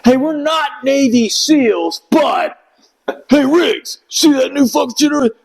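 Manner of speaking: excited shout. Retold or imitated. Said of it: "And he's like".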